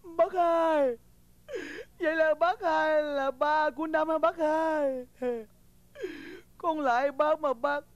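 slow, teary pleading; tearful plea. Acted. Young man begs the old father, slow and teary. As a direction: beg him through tears.

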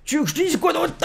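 suddenly very high, silly voice; high-pitched mock helplessness; squeaky joke voice. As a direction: squeak it out like a comic aside. Joking aside in squeaky voice.

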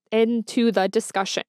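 measured, word-by-word restart; careful correction. Real, not acted. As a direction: separate each word deliberately after a stumble. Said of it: "I cannot speak".

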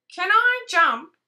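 as if the question is silly; scoffing. Acted. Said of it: "said Rabbit".

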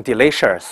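delicious with a curled tongue; mock curled delicious; delicious said with an r-colour; wrong delicious. Shown as a demonstration. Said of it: "不要读成".

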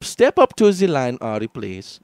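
mock German accent. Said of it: "my German goes Indian".

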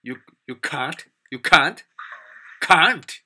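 repeated "can't" building to an exclamation; mock disapproval of British accent. Canadian co-worker objecting to British accent, mock disbelief. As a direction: query it, then blurt "Can't!". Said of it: "he didn't like that British accent".

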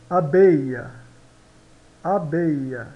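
"Abeia" com o final soando quase como A; ILL as A. Shown as a demonstration. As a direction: diga "abeia", E final mudo. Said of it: "O E no final não se pronuncia". (professora demonstra "abeia" sem o E final)

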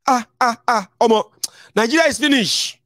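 high, wailing mock despair; despairing citizen. Vlogger imitating followers who give up: high mock wail. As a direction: mimic a follower crying the nation is finished. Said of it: "you begin to say".

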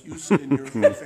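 loud laughing payoff; laughing punchline. Real, not acted. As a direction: deliver it cracking up. Punchline of the owner's offer.

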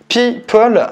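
"people" said as French "pipol", one word set apart; English word read with a heavy French accent, slightly high. Shown as a demonstration. Host spelling out the site name for viewers, in French-accented English. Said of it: "pour mon accent, c'est pas foufou".

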